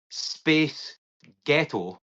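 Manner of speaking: each word set apart; spaced-out demo. Shown as a demonstration. Co-host sets up an accent trick, words spaced out. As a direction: say the two words slowly, one by one. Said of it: "So, if you say the words".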